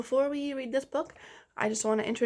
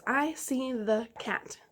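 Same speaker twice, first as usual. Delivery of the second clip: slow echo sentence; slower than usual. Shown as a demonstration. Teacher repeating for pupils, slow clear echo. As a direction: say it again slowly for them to copy. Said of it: "Repeat that sentence".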